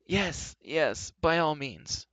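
a first trace of eagerness; eager. A narrator's reading. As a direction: jump in keenly. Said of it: "with the first trace of eagerness".

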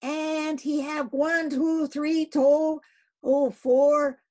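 high, loud broken cry; Queequeg crying out disjointedly. Acted. Queequeg cries to the captain, high and halting. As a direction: stumble over counting the irons. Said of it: "cried Queequeg disjointedly".

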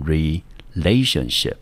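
relationship with the stress on LA; stress before -tion. Shown as a demonstration. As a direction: say relationship as re-LA-tion-ship, second syllable stressed. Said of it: "重音还是一样在选的前面".

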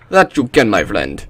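put-on horrible Russian accent. Player retrying his reply, horrible Russian accent. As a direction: swoop down through a bad Russian accent. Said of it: "that's a horrible Russian accent".

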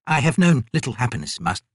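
lightly voiced humble old man; old painter. Old artist answering his god, humble and meek.

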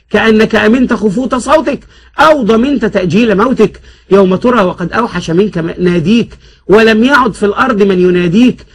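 a lightly voiced rhyming sermon; preacher's sermon. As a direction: preach to the passengers for money. Beggar preaches for donations. (وعظ خطيب يستدر التبرعات بصوت خفيف)

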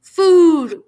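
loud, high, drawn-out moan. A narrator's reading. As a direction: moan the word out loudly. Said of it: "Grover moaned a little louder".

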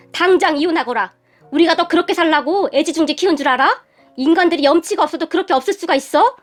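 indignant fatherly scolding; restrained angry shout. Acted. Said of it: "시아버님이 다시 소리를 질렀어요". (언성을 살짝 높여 호통치듯)

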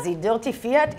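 lightly put-on German accent, dirty fiat with z and l; mock German accent. Co-host correcting herself, half-hearted mock German accent. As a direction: tease it in a hammy German voice. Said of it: "in a German accent".

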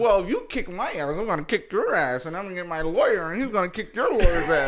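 prim, sing-song proper-English threat; mock proper English. Showing the proper talk he can't do, mock proper English. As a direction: send up a well-spoken man threatening to sue. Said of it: "I can't talk proper".

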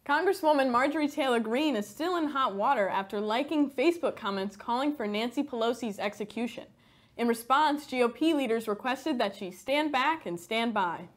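satirical news anchor delivery; scripted newsdesk read; mock news read. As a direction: read the joke headline like an anchor.

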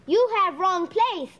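hammed-up fake Japanese accent for the door; mock Japanese accent. Boy pranks the nerd at the door in a fake Japanese accent. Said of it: "it's a terrible accent".

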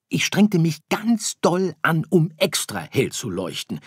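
hoch und laut, bockig abwehrend; trotziges Sternkind. Acted. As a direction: Sirius erklärt Weihnachten für doof. Sirius erzählt von Kränkung. (trotzig und bockig, höher und lauter)

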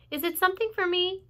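high hopeful Wilbur; hopeful pig. Acted. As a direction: ask hoping it's for you.

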